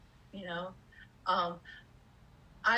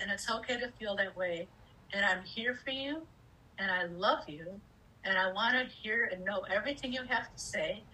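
loving parent voice; 2 semitones lower than usual. Retold or imitated. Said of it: "part of me that's just like".

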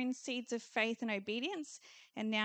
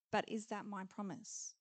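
softer, doubtful question; unsure believer; 3 semitones lower, 6 dB quieter than usual. Retold or imitated. Churchgoers doubting before God, soft and tentative. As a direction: ask it tentatively, half afraid. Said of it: "some people saying to God".

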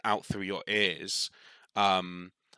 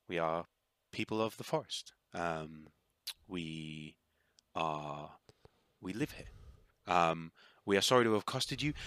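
a lightly voiced gentle tree spirit introducing herself; calm, polite and a little hesitant; soft-spoken dryad; 3 dB quieter than usual.

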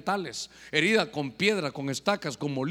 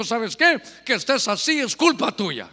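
indignant rebuke; 4 dB louder than usual. Retold or imitated. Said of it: "Se indignó, le dijo".

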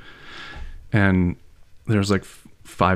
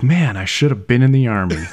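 raised-voice mock exasperation; imitated angry rant; 4 semitones higher, 5 dB louder than usual. Student retells teacher's rant ending, mock exasperated outburst. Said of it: "end of his rant".

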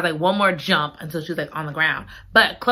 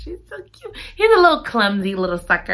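cutesy gushing; faster than usual. Real, not acted. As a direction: coo over an adorable cat. Gushing over the cat.

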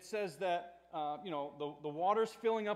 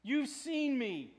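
slow, raised reproach; mild stern rebuke; 5 semitones higher, 4 dB louder, slower than usual. Acted. Jesus reminding disciples of what they witnessed, mildly stern. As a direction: remind them pointedly, drawing it out. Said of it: "but mild rebuke".

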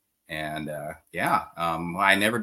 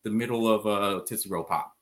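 put-on amateurish British accent, slightly raised pitch; terrible British accent. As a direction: quote the cartoon owl in bad British. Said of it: "I have a terrible British accent".

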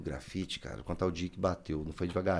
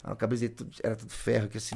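normal talking voice

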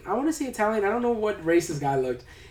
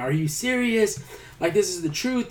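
higher-pitched mock disbelief; retold freak-out; 5 semitones higher than usual. Derry pleading with doubting cops, mildly freaked out. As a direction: imitate someone pleading to be believed. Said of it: "The dude's freaked out".

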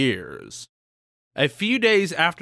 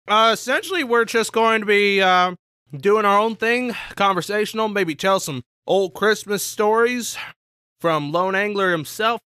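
hyped host voice; 4 semitones higher than usual. Real, not acted. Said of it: "I'm talking myself in the third person".

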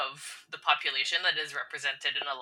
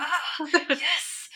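delighted recognition; 12 semitones higher, 4 dB louder than usual. Retold or imitated. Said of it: "I was like".

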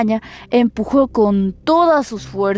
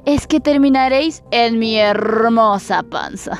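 wolf voice. Acted. Wolf threatens the pigs.

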